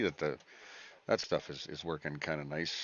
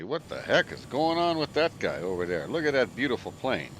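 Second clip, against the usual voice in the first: impressed onlooker; 5 semitones higher, 6 dB louder than usual. Retold or imitated. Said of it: "People look, say".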